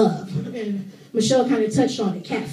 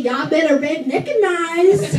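drawn-out redneck twang, pitched up; slow, higher redneck drawl; redneck accent; 4 semitones higher, slower than usual. Acted. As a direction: put on a redneck accent, stretching the words. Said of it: "that's my redneck accent".

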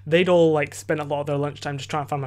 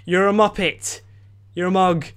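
louder, higher teasing jab at a friend; mock insult; 4 semitones higher, 5 dB louder, slower than usual. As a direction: rib him like a cheeky mate. Mates mocking him for idiocy.

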